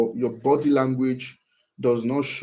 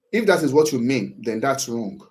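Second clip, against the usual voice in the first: too sharp. Shown as a demonstration. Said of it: "Oh, that is too sharp".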